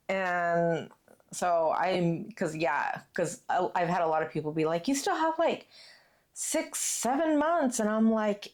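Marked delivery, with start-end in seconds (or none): 4.9-7.8 higher-pitched imitation of others; mimicked dismissive reaction. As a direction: echo their objection in a raised voice. Mimics people questioning her early planning.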